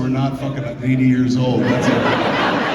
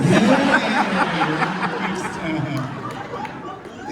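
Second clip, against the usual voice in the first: mock dickish voice; 4 semitones higher, much slower than usual. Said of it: "It just sounds like you're being a dick".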